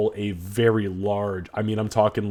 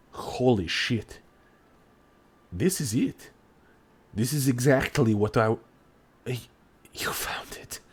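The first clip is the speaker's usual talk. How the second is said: awed; 6 dB quieter than usual. Acted. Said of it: "his eyes go wide and he goes".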